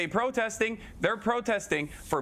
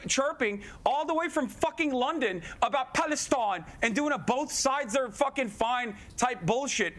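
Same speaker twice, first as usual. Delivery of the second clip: heated rant. Real, not acted.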